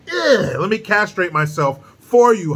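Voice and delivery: high-pitched mock strain; hammed-up offer of self-abasement; mock grovelling apology. Mocking a star begging Hollywood's forgiveness, with strained, high grovelling.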